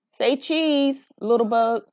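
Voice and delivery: high, bright call to the clouds; playful photo call. Acted. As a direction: coax them to smile like a child with a camera. Child photographing.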